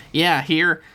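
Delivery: put-on high, strained kid voice, meant as under his breath; muttering Dev. A narrator's reading. Dev to himself before pushing the bar, high and strained. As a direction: squeeze it out high, drawing out the last word. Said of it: "Dev said under his breath".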